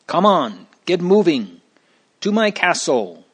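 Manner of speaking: high, loud yelling orders; yelling giant. Acted. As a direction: drive them on with a yell. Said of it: "the giant yelled".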